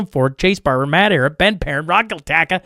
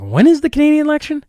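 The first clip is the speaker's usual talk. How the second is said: quoting Vance; 12 semitones higher, 4 dB louder than usual. Retold or imitated. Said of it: "He's like".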